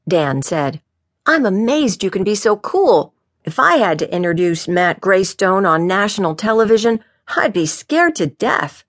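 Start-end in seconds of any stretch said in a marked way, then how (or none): 1.3-8.8 lightly voiced higher-pitched officer; eager young officer, admiring. Officer Dan admires his chief's cool, eagerly. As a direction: play an impressed, excitable underling.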